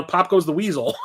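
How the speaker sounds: ordinary talk, nothing marked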